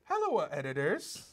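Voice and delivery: put-on Italian accent, high and loud; hammed-up Italian accent, half laughing. Host reading a viewer letter in a hammed-up Italian accent. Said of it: "a bit of an Italian accent here".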